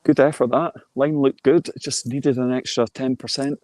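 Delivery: lifted, upbeat putt reaction; golf commentator. Real, not acted. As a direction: pitch rising with admiration. Reacting to a near-miss putt.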